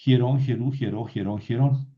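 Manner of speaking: hierón, hierú, hieró stressed on the final syllable; rhythmic drill landing on the RÓN of hierón; stress on last syllable. Shown as a demonstration. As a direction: keep every ending of hierón, hierú, hieró accented. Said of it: "vean que el acento no se mueve".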